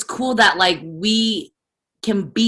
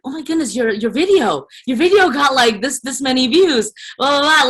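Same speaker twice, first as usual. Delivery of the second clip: lightly voiced excited mom; 5 semitones higher than usual.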